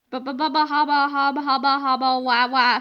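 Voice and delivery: put-on low, dazed baby babble; babbling nonsense. A narrator's reading. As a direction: stammer helplessly like a stunned man.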